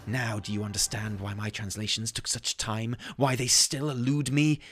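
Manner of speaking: theatrical reading with a rising climax; dramatic rambling scholar. Acted. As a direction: start composed, work up to manic wonder. Reads lore in character.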